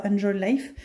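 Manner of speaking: French-accented English; English words said with a real French accent; accent anglais pourri. Real, not acted. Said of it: "j'ai un accent anglais pourri". (anglais avec l'accent français)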